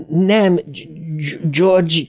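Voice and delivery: high, stammering shout without much volume; stuttered cry. A narrator's reading. Bill pleads with dead George, stammering high cry. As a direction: cry out, catching on the name. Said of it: "kiáltotta Bill".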